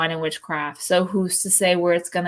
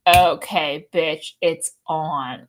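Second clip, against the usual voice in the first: mock challenge; 4 semitones lower, much slower than usual. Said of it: "I'm like".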